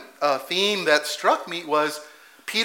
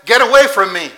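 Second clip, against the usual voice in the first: louder, pushing him off; a frightened man shoving God away; loud recoil; 5 semitones higher, 10 dB louder than usual. Retold or imitated. Peter recoiling from Jesus, loud and urgent.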